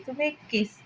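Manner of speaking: soft, tender little offer; lovingly. A narrator's reading. Girl teasing her friend, lovingly soft. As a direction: say it sweetly and softly. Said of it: "ईमान प्यार से बोली".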